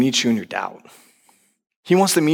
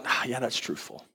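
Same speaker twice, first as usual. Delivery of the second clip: soft realization; 12 dB quieter than usual. Retold or imitated.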